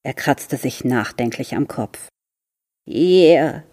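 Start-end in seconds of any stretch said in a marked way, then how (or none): 2.9-3.6 hissed. A narrator's reading. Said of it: "zischte die Stimme nochmals".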